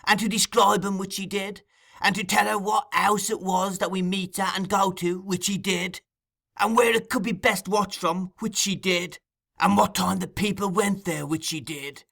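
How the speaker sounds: high, relentless, incensed tirade; half mad with fury. A narrator's reading. Fagin making Noah confirm the betrayal, high and furious. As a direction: hammer through the charges in a high voice. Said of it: "half mad with fury".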